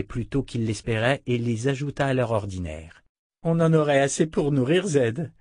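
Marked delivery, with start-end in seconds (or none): 3.4-5.3 higher-pitched burst of delight; delighted exclamation. Acted. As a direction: exclaim it with pleased wonder. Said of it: "s'extasia Callan". (exclamation ravie)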